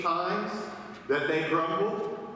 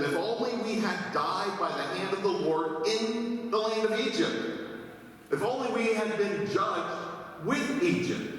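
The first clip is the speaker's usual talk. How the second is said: higher, lament-like grumbling; complaining Israelites; 6 semitones higher than usual. Acted. Preacher voicing hungry Israelites complaining to Moses, higher whine. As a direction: wail it like a self-pitying crowd. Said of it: "The Israelites said to them".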